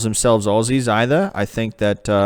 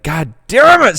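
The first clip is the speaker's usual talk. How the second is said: slipped into British; 7 semitones higher, 7 dB louder than usual. Pretend. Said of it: "I slipped into British there".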